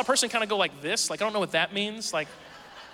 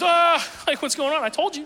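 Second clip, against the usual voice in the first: put-on startled kid shout; 8 semitones higher, 5 dB louder than usual. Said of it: "he's just".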